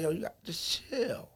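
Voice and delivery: laid-back producer. Retold or imitated. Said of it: "it's the way he said it though".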